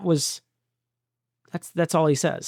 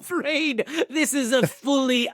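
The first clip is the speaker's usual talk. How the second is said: higher, laughing mock Emperor; 5 semitones higher than usual. Host making a Star Wars joke about doing voices. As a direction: parody the Death Star line through laughter. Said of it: "we promise to do less voices".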